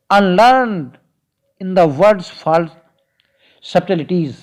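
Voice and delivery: very slow, deliberate reading of the verse; unhurried verse reading; slow poem recital. Acted. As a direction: lay each word of the poem out for the class. Recites the sonnet line.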